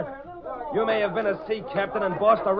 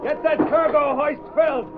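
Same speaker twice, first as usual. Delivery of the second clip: loud, higher foreman's bark; shouting orders; 6 semitones higher, 3 dB louder than usual. Acted. Foreman yelling at dockworkers to hurry the loading, loud. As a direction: drive the workers hard.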